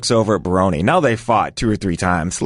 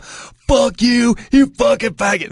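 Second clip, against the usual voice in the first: angry yelling; 13 semitones higher, slower than usual. Retold or imitated. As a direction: keep hammering him with insults. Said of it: "keeps yelling at me nonstop".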